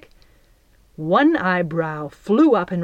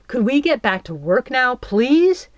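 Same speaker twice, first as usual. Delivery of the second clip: high, sarcastic request with pointed please; mock-polite, pitched-up plea; 5 semitones higher, 3 dB louder than usual. A narrator's reading. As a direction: load the last word with sarcasm. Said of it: "Trouble's last word was full of sarcasm".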